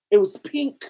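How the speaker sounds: high laughing outburst; laughing shout. Real, not acted. Telling friends about the pink Last Supper, laughing shout. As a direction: burst out laughing on it.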